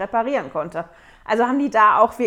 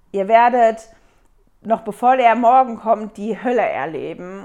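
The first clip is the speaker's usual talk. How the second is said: threatening shout; 7 dB louder than usual. Retold or imitated. Armed men threaten the camp.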